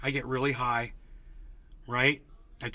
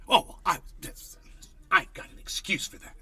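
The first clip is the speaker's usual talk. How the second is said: mock whiny excuse. Mocking a privileged person.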